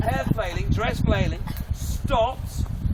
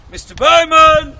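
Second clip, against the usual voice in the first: put-on much louder, high drawn-out child's call; little girl, pitch climbing; 8 semitones higher, 17 dB louder, slower than usual. Little girl demanding the bowman's attention, high insistent call. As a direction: call more insistently, stretching the name high. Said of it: "She goes up, like, a half octave".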